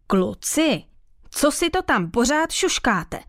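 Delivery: mild storybook roar; thundering teacher. A narrator's reading. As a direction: pretend to boom at two chattering pupils. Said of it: "zahřměl učitel Ouško".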